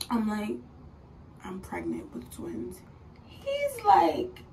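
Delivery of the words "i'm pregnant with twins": very low, soft and slow; hushed retold announcement. Woman telling her sleeping partner, hushed and slow. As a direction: break the news under your breath.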